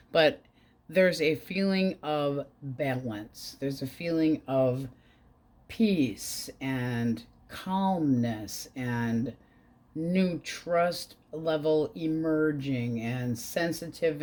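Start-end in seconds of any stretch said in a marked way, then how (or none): 5.7-14.2 soothing. Real, not acted. Reading soothing card meaning.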